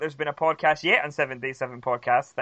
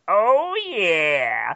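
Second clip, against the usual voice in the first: sweet Elizabeth; 3 semitones higher than usual. Retold or imitated. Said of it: "how sweet Elizabeth was when she was like".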